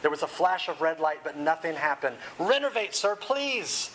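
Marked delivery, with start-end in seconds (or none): 2.4-3.9 desperate plea. A narrator's reading. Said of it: "he cried".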